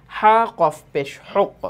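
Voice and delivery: drawn-out teacher spelling; slow spelling demo. Shown as a demonstration. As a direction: spell it out slowly for the class. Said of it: "তাজদিদযুক্ত শব্দের অনুশীলন, প্রথমে দেখি আমরা".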